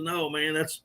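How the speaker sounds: imitating a friend laughing, slow; mild retold laughter as the joke lands; laughing while talking. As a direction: laugh through the last words, drawn out. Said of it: "And Mark starts laughing".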